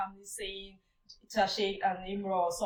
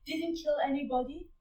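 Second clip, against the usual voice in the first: horrified protest; 13 semitones higher than usual. Retold or imitated. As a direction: drag it out in shocked disbelief. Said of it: "Musa's response again was like".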